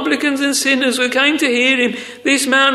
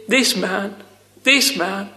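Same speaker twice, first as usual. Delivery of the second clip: lower-pitched, understated disdain; solemn derision; 4 semitones lower, 4 dB quieter, slower than usual. Retold or imitated. Preacher voicing the Pharisees' emphasis on this man, solemn derision. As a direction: quote it with quiet, measured scorn. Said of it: "a note, friends, of solemn derision".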